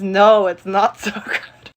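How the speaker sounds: slow, laughing mock whimper; fake-cry it through laughs; mock tearful. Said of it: "I think he means".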